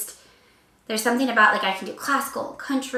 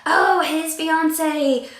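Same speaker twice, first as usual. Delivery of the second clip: high, slow snooty mock voice; mock fan voice; 6 semitones higher, 5 dB louder, much slower than usual. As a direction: play a sneering fan, drawn out. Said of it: "'cause I don't want you to be like".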